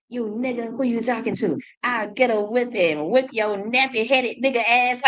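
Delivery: mock the slave overseer threatening someone; imitating cruel overseer. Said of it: "he started imitating how they would act".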